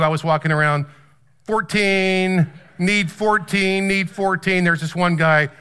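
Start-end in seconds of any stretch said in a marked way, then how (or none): 1.4-4.6 lightly imitated street call, stretched out; mock hawker's call; ticket seeker calling out. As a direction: call out the number to passers-by, drawn out. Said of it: "if you're trying to scalp".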